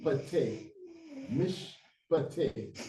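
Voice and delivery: "mish" closed, then "pate" as pa-TE; syllable by syllable. Shown as a demonstration. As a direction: sound out "mish, pate" with a break between. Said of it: "you pick up the syllable again".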